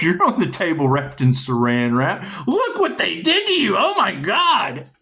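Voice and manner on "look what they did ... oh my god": high, laughing fake sympathy; mock pity, laughing. Playing Dexter over a victim, high mock pity. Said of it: "go Dexter".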